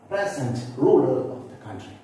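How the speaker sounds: "present" with PRES strong; stress on first syllable. Shown as a demonstration. Teacher reading the adjective example, first-syllable stress on "present". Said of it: "stress falls on the first syllable".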